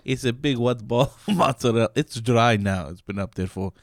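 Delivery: light mock Italian accent, laughing through it; a hint of a cartoon Italian accent; hammed-up Italian accent. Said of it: "doing an Italian accent".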